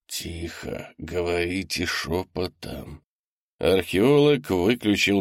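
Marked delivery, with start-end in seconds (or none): 0.1-3.0 much softer, slow urgent hush; quiet them down at once; man hushing his crew, barely voiced; hushed command. Ordering others to whisper.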